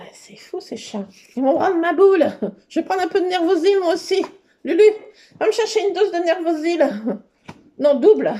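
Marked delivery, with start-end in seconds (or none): 1.4-6.9 mock panic. Mock panic over the cats. 7.8-8.3 loud mock demand. Demanding a double dose.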